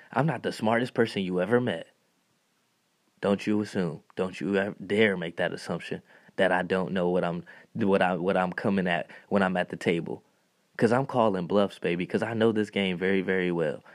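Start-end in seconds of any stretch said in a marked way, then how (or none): 3.2-13.8 low, measured warning; serious. Real, not acted. Speaker warning listeners not to underestimate them, serious. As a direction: lower the pitch and warn them in earnest. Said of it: "this is serious".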